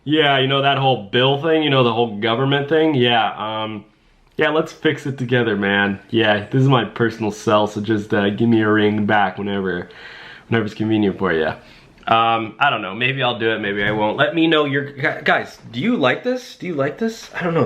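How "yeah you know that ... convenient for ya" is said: mock-casual "yo, bro" chattiness; laid-back pretend call to a big shot; casual bro phone call. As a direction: play it like leaving a buddy an offhand voicemail. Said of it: "I'm just like".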